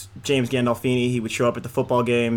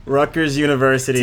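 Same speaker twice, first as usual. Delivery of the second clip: louder, clearly enunciated; to someone hard of hearing; 4 dB louder than usual. Pretend. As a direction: say it up so they hear you. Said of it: "speak up, please".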